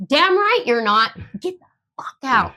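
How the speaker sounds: high-pitched angry retort; retold fierce dismissal; going apeshit. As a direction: snap back, partly held in. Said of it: "just going apeshit on them".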